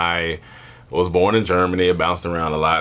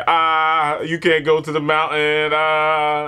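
put-on kids taunting; 7 semitones higher, slower than usual.

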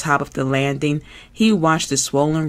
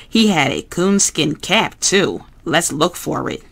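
earnest, patient Bert, lightly voiced; fussy puppet explaining seriously. Bert voice, proud.

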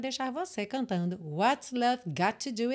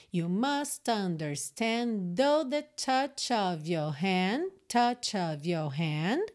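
slow demo reading; much slower than usual. Shown as a demonstration. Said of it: "A gente já junta o final de understand com though".

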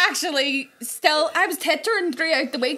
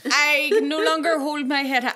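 mock politician; 3 semitones higher, 3 dB louder than usual. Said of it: "like a politician".

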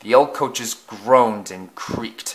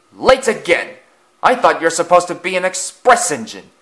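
louder, higher taunt; sneering engine; 6 semitones higher, 5 dB louder than usual. A narrator's reading. Another engine taunting a late express, sneering. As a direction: jeer at the latecomer. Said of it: "another engine wheezed".

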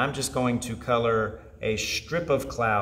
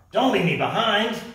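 pleading cry; 9 semitones higher, 6 dB louder than usual. Acted. Coyote falling, crows leaving.

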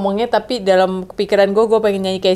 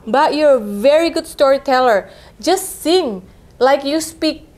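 quoting a singer's advice; 3 semitones higher, slower than usual. Retold or imitated. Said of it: "Dia sempat ngomong gini".

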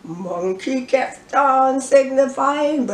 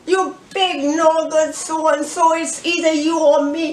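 raised, brisk threat; a lightly voiced lion, higher and fast; Lion's challenge; 5 semitones higher than usual. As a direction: square up and dare him. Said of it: "Lion said".

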